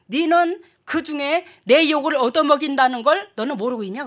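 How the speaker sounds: retold older brother's reproach; imitating brother scolding. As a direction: play the brother, scolding his sister. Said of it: "그러더라고".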